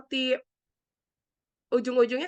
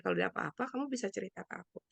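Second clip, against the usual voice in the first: soft, lower, reassuring close; gentle offer of support; 5 semitones lower, 7 dB quieter, faster than usual. Shown as a demonstration. Helper inviting someone in crisis to confide, softly reassuring. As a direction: offer a listening ear quietly. Models offering a listening ear.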